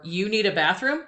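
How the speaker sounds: "You need a bathroom?" rising on "bathroom"; rising question tune. Shown as a demonstration. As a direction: end "bathroom" going up. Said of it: "put an inflection in your voice at the end".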